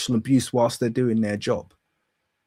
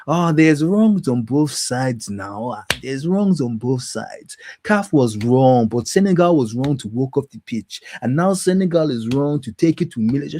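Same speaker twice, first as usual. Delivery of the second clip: mocking whiny voice. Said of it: "this is exactly the weakness that I'm talking about".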